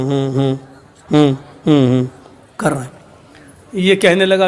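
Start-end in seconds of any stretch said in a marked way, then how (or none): 0.0-2.0 low, submissive hmm-hmms; meek hums. Acted. Husband meekly humming while wife scolds, low hums. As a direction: hum along meekly, head down. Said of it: "سر نیچے ڈال کے ہوں".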